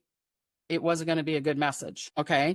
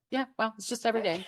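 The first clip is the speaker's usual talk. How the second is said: psychic Debbie; 4 semitones higher, 4 dB quieter, faster than usual. Retold or imitated. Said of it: "the psychic Debbie's like".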